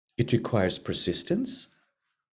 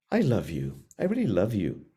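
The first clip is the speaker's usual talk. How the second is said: tender self-talk; 4 semitones lower, 3 dB quieter than usual. Shown as a demonstration. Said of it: "But tell yourself often".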